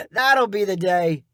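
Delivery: slow, dry scoffing voice; scoffing partner. A narrator's reading. Partner number two doubting Bryn, slow and dry. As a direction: drag it out in disbelief. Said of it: "said partner number two".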